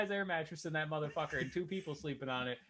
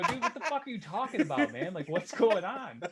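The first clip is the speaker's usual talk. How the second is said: higher-pitched, laughing retold bafflement; mock exasperated questioning; baffled disbelief; 5 semitones higher than usual. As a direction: act out incredulous questioning through a laugh. Acting out his baffled reply in story.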